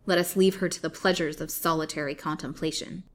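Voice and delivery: loud, commanding menace; loud villainous command; menacing threat. Acted. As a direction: lay down the sentence coldly. Colville threatens the captive.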